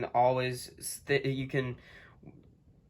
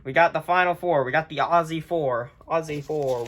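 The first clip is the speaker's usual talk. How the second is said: louder, fast hype; excited hype; 3 dB louder than usual. Real, not acted. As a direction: pump up the final four. Hype repeat.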